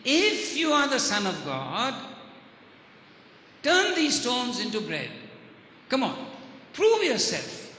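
challenging, measured taunt with pauses between commands; lightly voiced devil. Devil daring Jesus to prove himself, lightly voiced challenge. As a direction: press the dare, a touch of the tempter. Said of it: "attacking his true identity and saying".

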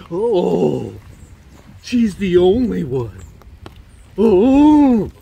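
loud, drawn-out swooning with long ohs; mock lovestruck man. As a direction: swoon over her, hammed up and stretched out. Mocks men idealising their girlfriends.

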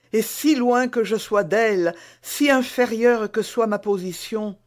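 lightly voiced young woman, fervent and loud; devoted young maid. Bonacieux parle à la reine. (jeune femme dévouée, ardente)

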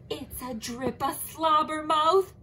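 high, slow, loud dramatic naming; spooky name. Acted. Zebra telling Leopard the monster's name with relish. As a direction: savor the creepy name.

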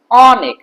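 অনেক with an open, spread 'aw' start; open vowel. Shown as a demonstration. Teacher repeats the right form, অনেক as 'aw-nek'. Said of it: "অর্থাৎ এটা প্রসারিত হয়".

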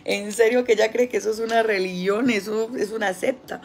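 stunned at what she found; shocked disbelief. Retold or imitated. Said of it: "yo dije".

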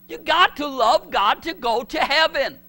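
forceful pulpit declaration; preaching emphasis. Real, not acted. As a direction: hammer the truth home to the congregation.

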